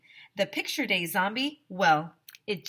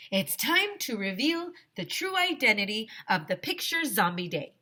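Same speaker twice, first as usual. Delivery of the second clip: announcing; 4 semitones higher than usual. Acted. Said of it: "I announced".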